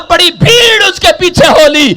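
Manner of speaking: loud, high-pitched sustained sermon delivery; full-force preaching. Acted. Preacher retelling Jericho to the congregation, full-force preaching. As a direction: preach it in a driving, unbroken shout.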